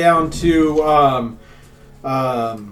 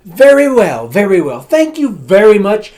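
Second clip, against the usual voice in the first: mild noble voice; 4 semitones higher, 7 dB louder than usual. Acted. NPC noble answers the butler.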